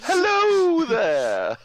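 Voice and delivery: high, slow drawn-out hello there; Obi-Wan impression. Co-host greets his friend in a mock Obi-Wan voice. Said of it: "General Kenobi".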